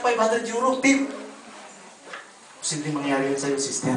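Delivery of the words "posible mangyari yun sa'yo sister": soft assurance. Real, not acted. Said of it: "repeated blessing declaration".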